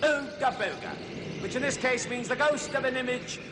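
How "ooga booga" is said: slow catchphrase. Acted. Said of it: "as we always have to say".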